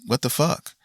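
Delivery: lightly mock the stunned fans' reaction; stunned what the fuck. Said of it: "most people are saying".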